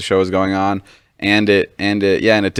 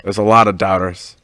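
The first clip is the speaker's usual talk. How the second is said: mildly reassuring retold pressure; nicest way; 2 semitones lower than usual. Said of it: "he said it in, like, the nicest way".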